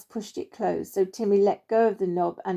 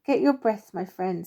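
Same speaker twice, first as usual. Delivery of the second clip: warmly. Acted. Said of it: "said Mighty Oak warmly".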